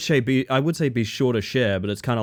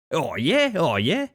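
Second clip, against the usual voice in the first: Australian country accent; 3 semitones higher, slower than usual. Shown as a demonstration. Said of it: "I've known enough people to talk like this".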